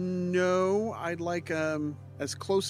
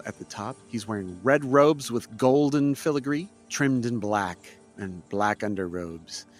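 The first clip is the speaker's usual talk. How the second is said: game master narration. A narrator's reading. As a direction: set the scene for the players. GM scene description.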